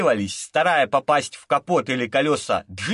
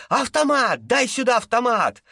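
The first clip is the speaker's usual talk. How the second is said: shouting; 7 semitones higher than usual. A narrator's reading. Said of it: "закричал Богданович Даше".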